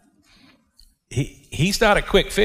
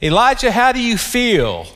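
raised, sympathetic mock asking of how he feels; coddling wrong question; 6 semitones higher than usual. Shown as a demonstration. Preacher showing the question God did not ask, a mock caring tone. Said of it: "God did not ask Elijah".

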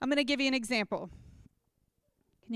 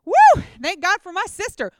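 mock relief; 7 semitones higher, 10 dB louder than usual. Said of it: "I did not sit there and think".

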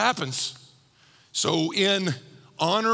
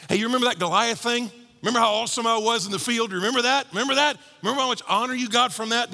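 mock boast; 3 semitones higher, faster than usual.

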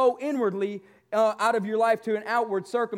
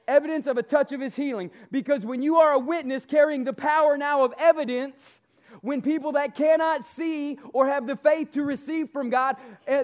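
booming motivational speech; 2 semitones higher than usual. Acted. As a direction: preach it at full force to the congregation. Builds to booming preaching.

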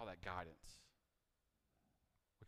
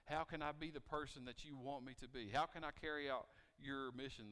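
anxious prayer; 4 semitones higher, 4 dB louder than usual. Retold or imitated. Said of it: "maybe you think".

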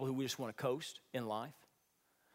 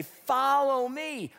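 rallying call; 8 semitones higher, 6 dB louder, much slower than usual. Retold or imitated. Encouragers calling him forward.

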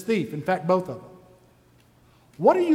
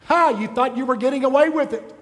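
mildly mocking, higher-pitched taunt; lightly acted official scoffing at a prisoner; gloating Roman officials; 4 semitones higher, 3 dB louder than usual. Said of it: "Can you imagine Roman officials?".

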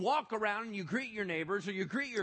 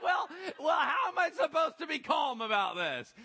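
high, loud panicked protest; panicked shout; 8 semitones higher, 5 dB louder than usual. Retold or imitated. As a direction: yell it in mock panic. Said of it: "You're like".

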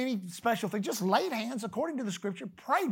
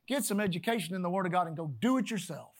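God's reply; 5 semitones lower, faster than usual. Retold or imitated. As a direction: toss it off like a plain order. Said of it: "God's just saying".

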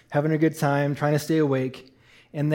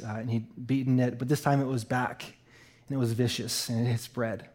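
low, hushed and grave; quiet, heavy-hearted telling; somber; 4 semitones lower, 5 dB quieter than usual. Real, not acted. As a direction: break hard news softly. Recounts his dad's cancer news.

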